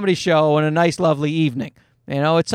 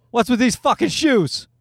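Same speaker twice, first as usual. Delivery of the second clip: put-on kid laughing; 4 semitones higher than usual. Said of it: "started laughing in our faces".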